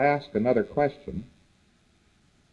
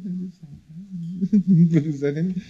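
very slow; 6 semitones higher, 4 dB louder, much slower than usual. Acted. Audience sitting unmoved.

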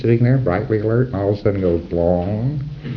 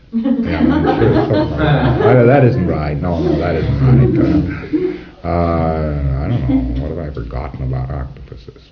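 puzzled PC; 3 semitones lower than usual. Retold or imitated. Acting the puzzled PC.

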